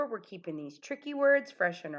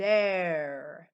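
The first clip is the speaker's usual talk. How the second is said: loud, deep, big giant voice; 4 dB louder than usual. Saying a tricky word aloud for listeners to copy, loud, deep giant voice. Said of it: "A loud, deep voice".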